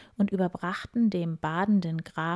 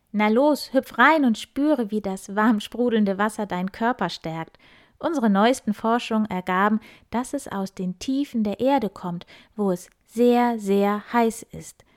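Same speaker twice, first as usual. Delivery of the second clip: proud boar; 3 semitones higher, 5 dB louder than usual. Acted. Boar Wildi boasts to the count, proud grunting. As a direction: puff up like a proud wild boar. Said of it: "grunzte Wildi stolz".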